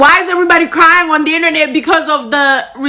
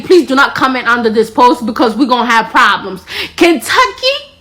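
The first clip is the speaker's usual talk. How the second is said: usual speaking voice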